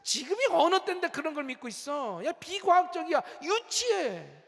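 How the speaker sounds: lightly acted scoffing, rising in pitch; mocking world. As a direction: scoff at naive believers. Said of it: "세상은 계속해서 우리에게 속삭이겠죠".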